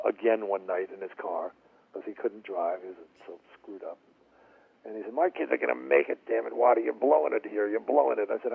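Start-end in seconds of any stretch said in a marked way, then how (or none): 5.1-8.3 mildly heated, pressing reproach; emphatic, exasperated urging, lightly acted; retold drunken insistence. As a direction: imitate a pushy father arguing his case. Retold drunk father pushing singer.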